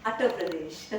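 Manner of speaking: British-anglicised "Uttar", first vowel as in "utter"; BBC newscaster mispronunciation. Retold or imitated. Lecturer mocking how a BBC newscaster named the state, British mispronunciation. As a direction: say "Uttar Pradesh" as a British newsreader mangles it. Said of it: "what a B B C newscaster called".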